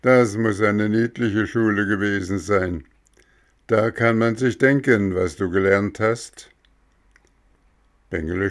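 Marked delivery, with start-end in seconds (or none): 0.0-6.5 higher, louder gardener voice; lightly voiced gardener; Mexle's voice.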